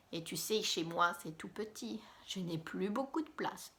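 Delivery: breathy whisper aside; hushed confession about no room. Acted. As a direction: whisper it like a secret. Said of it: "whispered aside in story".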